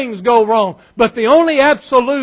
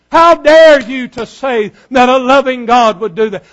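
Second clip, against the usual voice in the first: mock-indignant challenge, a little louder; retold indignation; 4 dB louder than usual. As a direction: drive hard on "dare", quoting an offended man. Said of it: "Oh, he was mad".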